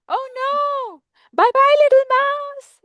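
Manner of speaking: very high squeal, getting loud; hammed-up monster panic; panicked Gruffalo. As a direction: shoot the pitch up and flee. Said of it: "Gruffalo says".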